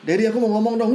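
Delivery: lightly voiced nagging child; pestering child. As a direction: imitate a kid begging dad to listen. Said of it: "Terus dia gangguin bapaknya".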